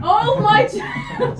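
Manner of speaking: slow stretched Oh my John; drawn out. Acted. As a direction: stretch it out slowly, laughing. Echoing joke slowly.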